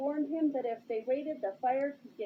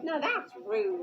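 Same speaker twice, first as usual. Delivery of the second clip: offended; slower than usual. Acted. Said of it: "Abe said, offended".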